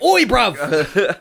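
hearty demo of a British accent; big British "oi, bruv". Shown as a demonstration. Comic coaching partner how to start, big British accent. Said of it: "You just gotta start with a big".

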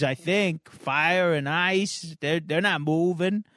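lightly voiced overwrought kid; Mitch. Boy recounts the Doomsday disaster in his head, lightly voiced. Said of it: "voice of our Mitch".

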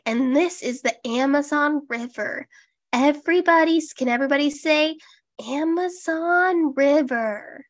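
slow, sing-song guide voice drawing out Amazon River; imitating a tour guide. Podcast host mimics the tour guide leading children, slow and sing-song. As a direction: play the chirpy guide coaxing a group to repeat. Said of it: "She's like".

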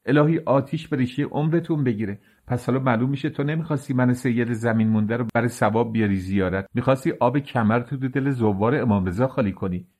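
lightly voiced angry woman cursing back; a touch of outraged accusation; indignant Alaviyeh. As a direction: curse them, then accuse.

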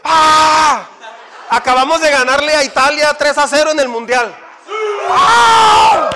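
loud, high excited yell like after a World Cup win. Shown as a demonstration. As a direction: celebrate as if Mexico just beat Italy. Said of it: "pero así como".

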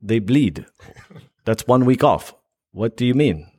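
wobbly mock Russian accent; muddled foreign accent. Russian envoy answering about women's basketball, muddled foreign accent. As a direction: do a drifting, badly faked Russian accent. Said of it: "did we travel into a different accent".

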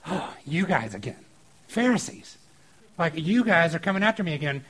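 acted weary exasperation after a long pause; exasperated sigh. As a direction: sigh out the "Oh", then complain in mild frustration. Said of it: "you could see that exasperated spirit".

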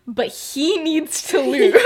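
slow, emphatic, laughing build; drawn-out hammed-up order; mock vehement demand. She tells James the boyfriend must lose, mock-fierce.

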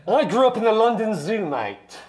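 hammed-up Aussie-ish accent on every line; lightly put-on antipodean accent, threatening the host; weird put-on accent. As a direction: play Coco the tough Yeti, mock menacing. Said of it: "The accent".

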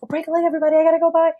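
high-pitched parting call; cheery hurried goodbye. Retold or imitated. To everybody at the audition, cheery hurried goodbye.

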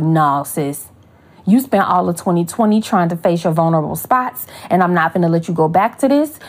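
firm telling-off. Retold or imitated. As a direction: rattle it off like calling her out. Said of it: "barked at me".

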